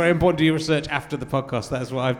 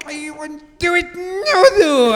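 loud, high mock Scottish accent; attempted Scottish accent; 13 semitones higher, 8 dB louder, much slower than usual. Shown as a demonstration. Host showing off his Scottish accent, hammed-up attempt. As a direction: wail it in an exaggerated Scottish accent. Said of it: "I've got it. ... mine's amazing. I went".

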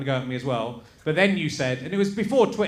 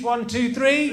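catchphrase count-in; 6 semitones higher, slower than usual. Acted.

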